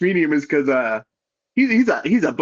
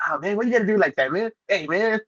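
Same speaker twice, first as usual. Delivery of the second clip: higher, quick imitation of a buddy protesting; mock protest in a raised voice; lightly imitated coworker, pitched up and fast; Angel's voice; 6 semitones higher, 3 dB quieter than usual. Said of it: "Angel is fucking, it's, it's a, he's a cool guy".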